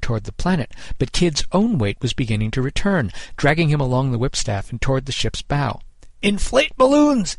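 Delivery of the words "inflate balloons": high, drawn-out captain's command; called-out order. A narrator's reading. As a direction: call the order across the deck. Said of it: "he called".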